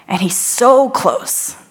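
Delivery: slow hushed whisper; slow whisper of awe; awed whisper. Acted. Jesus passing the blind man.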